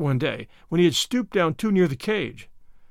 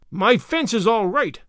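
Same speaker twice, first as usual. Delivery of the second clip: slow, louder cross retort, pitched higher; snapped; 4 semitones higher, 4 dB louder, slower than usual. A narrator's reading. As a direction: bite it off in a huff. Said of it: "snapped Mister Harrison".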